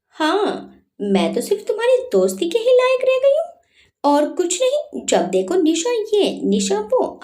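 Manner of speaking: put-on a girl crying out at her friend in anger; tearful anger. A narrator's reading. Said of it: "निशा गुस्से में बोले जा रही थी".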